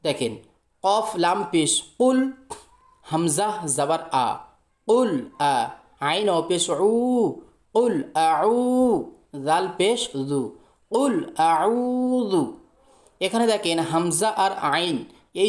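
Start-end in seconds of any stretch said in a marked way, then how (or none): 0.8-12.6 slow letter-by-letter spelling chant; spelling recitation. Shown as a demonstration. Teacher spells for students, slow sing-song chant. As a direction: spell out each letter, then join the syllables. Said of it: "এবার আমি প্রথম line থেকে বানান করব".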